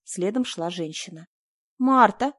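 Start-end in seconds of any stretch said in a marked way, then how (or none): 1.8-2.3 smiling call. A narrator's reading. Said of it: "повторила она и улыбнулась".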